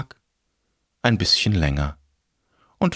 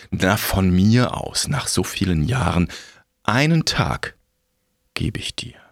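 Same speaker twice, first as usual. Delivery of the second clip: grim reaper voice. Acted. Death relents.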